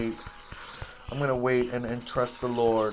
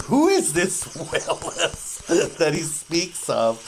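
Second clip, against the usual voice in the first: mock puzzled stranger; 4 semitones higher, 4 dB louder, slower than usual. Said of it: "other people like".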